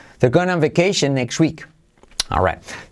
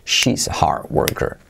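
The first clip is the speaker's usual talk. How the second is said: whisper; 8 semitones lower than usual. Shown as a demonstration. Teacher whispering the practice sentence to students. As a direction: breathe the sentence out, no voice. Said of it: "whispered repetition".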